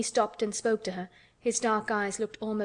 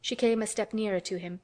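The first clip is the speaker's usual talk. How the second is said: usual speaking voice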